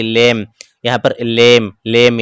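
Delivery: लेम with ए sounded, ending on म; silent final e. Shown as a demonstration. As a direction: repeat लेम, closing on the "m". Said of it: "ई का उच्चारण नहीं हो रहा है".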